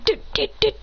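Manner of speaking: high, voiceless stuttered syllables; fearful stammer. Acted. Kiba running away in fear, fearful stammer. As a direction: sputter little high noises while fleeing. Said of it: "runs away in fear, saying".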